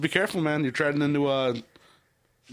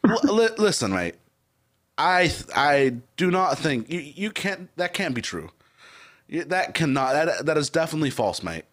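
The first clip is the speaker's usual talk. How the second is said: put-on British accent, halting; bad English accent. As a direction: insist haltingly as a mock Brit. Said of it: "it's so bad".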